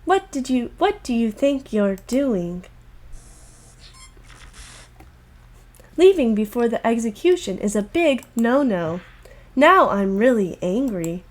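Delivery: hammed-up angry mastermind; menacing villain. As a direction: scold them coldly.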